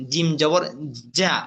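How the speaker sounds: "যা" with a voiced, vibrating onset; vibrating jim. Shown as a demonstration. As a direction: hold back, then buzz out "যা". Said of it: "সাথে vibration আছে". (কম্পন দিয়ে "যা" উচ্চারণ)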